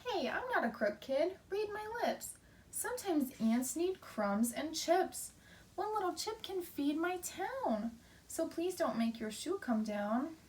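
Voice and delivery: high, indignant little ant voice; protesting ant. Acted. Teacher reading the ant protesting to the kid, high. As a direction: insist you're no crook, squeaky.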